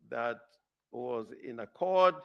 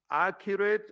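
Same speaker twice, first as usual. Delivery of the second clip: "accurate" punched higher and louder; emphatic stress; 6 semitones higher, 6 dB louder than usual. Real, not acted. Advocate flagging a repeated word to the court, emphatic stress. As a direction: lift and hit the word "accurate". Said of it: "again, the word accurate".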